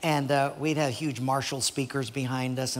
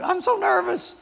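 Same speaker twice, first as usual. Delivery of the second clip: put-on much higher, squeaky nervous girl voice; nervous little girl; 4 dB louder than usual. Sally telling her friend before the talent show, nervous and much higher. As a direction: squeak it like a scared child. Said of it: "and so she's so nervous".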